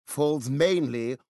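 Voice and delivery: slow, careful British The rain in Spain; British demo. Shown as a demonstration. British guest demonstrating a sentence for Canadians to mimic. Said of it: "let's hear a sentence".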